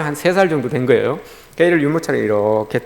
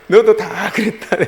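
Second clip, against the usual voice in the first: amused inner aside; 5 semitones higher, 5 dB louder, slower than usual. Retold or imitated. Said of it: "속으로 제가 그랬어요".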